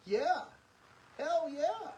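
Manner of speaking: loud, high burst of yes; excited shout. Real, not acted. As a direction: shout it out with real fervor. Asked if the marriage was hard.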